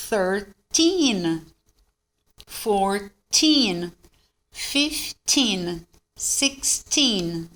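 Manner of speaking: put-on "Thirteen" to "nineteen" slowly, long stressed "teen"; "sixteen" with a drawn-out, falling TEEN. Shown as a demonstration. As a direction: lean on the "teen" of each number, "fourteen", "fifteen". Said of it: "Stress é no teen".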